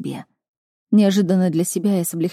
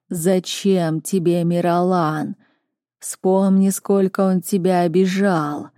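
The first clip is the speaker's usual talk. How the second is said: prophetic trance voice; slower than usual. Acted. Oracle's voice in darkness.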